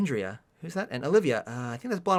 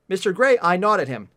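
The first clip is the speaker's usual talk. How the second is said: raised, emphatic quotation; pointed re-reading; 5 dB louder than usual. Shown as a demonstration. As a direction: quote it pointedly to expose the problem. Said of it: "point at the obvious problem".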